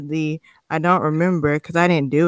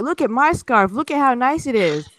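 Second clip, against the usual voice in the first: mock eager scammer; 5 semitones higher than usual. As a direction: sell the bad deal sweetly. Voicing the scammer.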